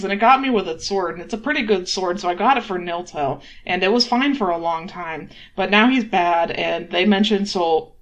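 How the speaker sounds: guilty rush of confession, mildly agitated; a touch of guilty venting; venting guilt. Acted. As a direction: let the worry spill out with a little extra push. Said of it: "venting guilt".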